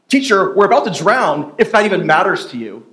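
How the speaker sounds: exasperated, sarcastic complaint with a laugh; annoyed disciples. Retold or imitated. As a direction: roll your eyes and grumble at the teacher. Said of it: "they're annoyed".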